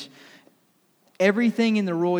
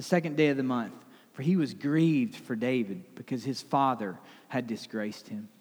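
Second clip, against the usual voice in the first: measured, lower Bible reading; scripture reading; 3 semitones lower than usual. Acted. Pastor reads the passage aloud to the congregation, measured reading. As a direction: read the verses with weight.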